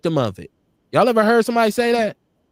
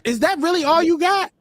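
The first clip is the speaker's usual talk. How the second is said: laughing taunt; 8 semitones higher than usual. Real, not acted. Laughing off the insult.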